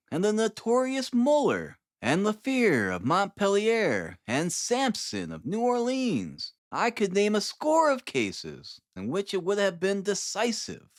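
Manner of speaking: a keen scientist delighting in his discovery; Holmes voice. A narrator's reading.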